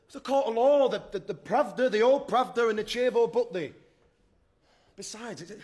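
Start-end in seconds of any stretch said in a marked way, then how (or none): 0.1-3.7 agitated protest. Acted. Alex defends himself, agitated.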